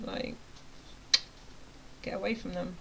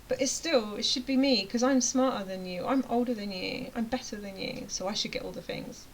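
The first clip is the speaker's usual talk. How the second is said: lightly acted entitled rival, louder at first, easing off; Mister Deserving Dave; 2 semitones higher, 4 dB louder than usual. Dave claims he is smarter, older and better, lightly mocked entitlement. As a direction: put on a touch of self-important insistence. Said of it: "I'm Mister Deserving Dave over here".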